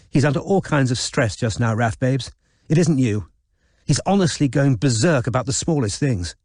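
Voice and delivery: lightly voiced posh young woman, coaxing; smooth it over for her brother; Izzy soothing. Izzy to Raph, excusing their father, lightly soothing.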